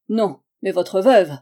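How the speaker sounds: slow, loud, deadly reply; loud slow threat over a gun; grim threat. Acted. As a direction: drop each word like a verdict. Armed rival's grim reply.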